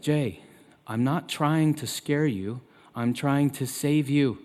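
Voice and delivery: put-on slow, measured dad reasoning with his child; gentle fatherly explaining. Father voiced gently explaining himself.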